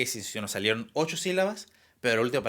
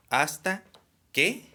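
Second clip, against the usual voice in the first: each syllable pulled out high and louder, "Hasta" then "que" with a pause between; teacher spells out "Hasta que" slowly, word by word, raised; syllables split apart; 5 semitones higher, 4 dB louder, slower than usual. Shown as a demonstration. Teacher showing students the syllables, slow and raised. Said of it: "¿Por qué?".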